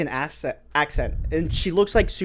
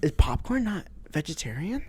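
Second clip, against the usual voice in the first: confused musing; 5 semitones higher than usual. Retold or imitated. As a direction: puzzle it out, rising in confusion. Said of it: "you're, like, rethinking".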